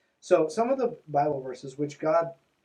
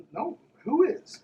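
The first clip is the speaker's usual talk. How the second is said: high, slow mocking aside; sarcastic quip; 11 semitones higher, 5 dB louder, slower than usual. Real, not acted. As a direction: toss it off with raised-pitch sarcasm.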